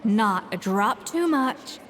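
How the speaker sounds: drawn-out, measured words; slow, careful concentration. Acted. Chef demonstrating blending drop by drop, slow and careful. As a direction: stretch the words as you pour with care.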